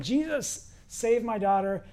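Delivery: mock scream starting high, then easing down; high opening cry for help; retold screaming plea. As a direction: imitate her crying out, without full volume. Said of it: "She's screaming".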